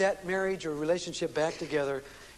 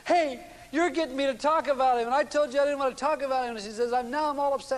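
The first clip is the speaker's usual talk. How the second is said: imitating her rising upset, higher and louder; mock-flustered, voice climbing higher; higher, louder upset wife; 6 semitones higher, 3 dB louder than usual. Wife realizing she's talking about husband, higher, louder upset.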